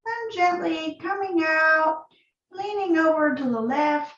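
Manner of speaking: calm, unhurried yoga instruction with long pauses; guided yoga practice. Acted. Yoga teacher leading students through breath and neck stretches, calm guiding voice.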